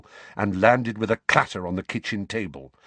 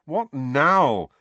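raised, impatient question; 6 semitones higher, 3 dB louder than usual. A narrator's reading. Nephew called back by his uncle, impatient. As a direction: ask it with worn-out patience. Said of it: "said Harry impatiently".

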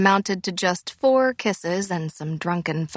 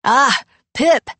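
high, silly put-on voice; 7 semitones higher, 9 dB louder than usual. A narrator's reading. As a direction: squeak it out in a silly falsetto. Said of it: "donning a silly high voice".

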